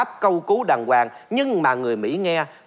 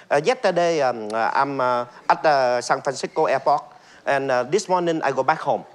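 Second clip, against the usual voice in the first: Vietnamese accent; slower than usual. Shown as a demonstration. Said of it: "rất rõ ràng".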